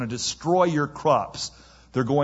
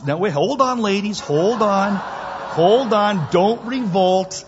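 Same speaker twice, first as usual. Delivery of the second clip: loud, high-pitched calling for order; raised voice holding off protest; mock alarm; 8 semitones higher, 5 dB louder than usual. Real, not acted. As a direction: call over a reacting crowd. Calming women in reacting audience.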